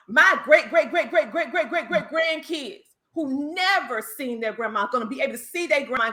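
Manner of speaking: laughing through it. Real, not acted. Laughing exaggerated list.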